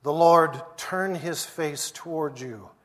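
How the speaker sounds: solemn blessing fading to a hush; benediction. Acted. Pastor blessing the standing congregation, solemn. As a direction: pronounce the blessing over them.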